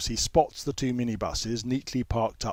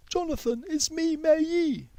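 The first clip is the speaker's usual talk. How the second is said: put-on girl Mei Yi. A narrator's reading. Mei Yi tries to make Jonathan remember her, higher pleading girl voice. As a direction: gently remind him who she is.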